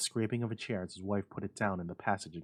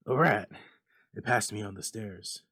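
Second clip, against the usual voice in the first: louder nervous insistence; shaking tones; 7 dB louder than usual. Acted. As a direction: try to calm her while afraid. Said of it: "said the old man in shaking tones".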